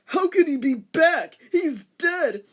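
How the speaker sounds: high loud disbelief; shocked disbelief. A narrator's reading. Teacher hearing the news, shocked. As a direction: gasp it out stunned.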